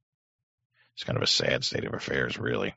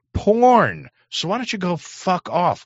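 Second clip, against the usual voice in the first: mock shout; 6 dB louder, slower than usual. Mocking the justices' retort.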